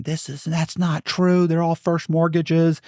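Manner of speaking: high, drawn-out imitation of a screamer; mock screaming. Bank fraud investigator disputing the facts, mock screaming. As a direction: protest in a slow, high mock yell. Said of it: "Guy from Wachovia screaming".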